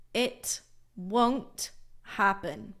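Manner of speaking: slow, careful "won't"; slow model sentence. Shown as a demonstration. Teacher slowly modelling the contraction for students. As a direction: spell out "it won't happen" slowly. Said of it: "I always like to use a contraction".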